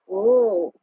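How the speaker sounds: a high, loud ooh of surprise; surprised ooh. Real, not acted. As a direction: react with a sudden high ooh. Hears viewer is stuck in snow.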